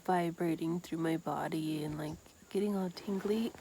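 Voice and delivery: hushed, awed whisper. Real, not acted. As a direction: whisper the sensation. Describing plant felt inside body.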